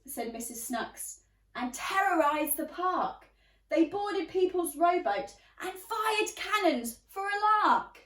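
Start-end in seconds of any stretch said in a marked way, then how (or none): 1.5-8.0 a touch higher, louder grumbling; indignant neighbour. Acted. Neighbour grumbles about the pirates, mildly outraged. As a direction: stay outraged to the end of the line.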